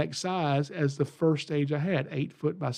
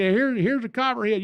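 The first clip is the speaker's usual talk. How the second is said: redneck hillbilly; 8 semitones higher, 3 dB louder than usual. Retold or imitated. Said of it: "redneck hillbilly hick up here".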